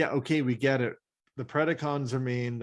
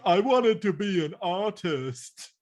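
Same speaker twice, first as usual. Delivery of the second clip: timid voice; 7 semitones higher, slower than usual. Retold or imitated. Voicing timid artist character.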